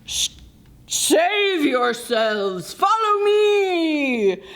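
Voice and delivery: slow, urgent rallying cry; urgent call. Acted. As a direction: lead them to safety. Bear rallying the animals.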